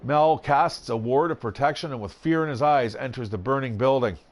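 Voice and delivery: lively, measured storybook reading; story narration. A narrator's reading. Game player reading card text to viewers, story narration. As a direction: narrate the adventure with drama.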